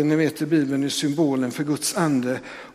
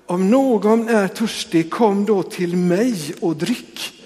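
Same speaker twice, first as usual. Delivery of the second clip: slow, louder crying out; proclaiming call; 3 semitones higher, 3 dB louder, slower than usual. Retold or imitated. Preacher retelling Jesus calling out in the temple, slow proclaiming call. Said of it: "Då ställer sig han och ropar".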